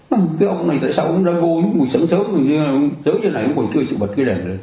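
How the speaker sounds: hammed-up complaint, a pitch up and rushed; mock scolding. Monk mimics a grumbler scolding the lamp-keeper, mock indignant.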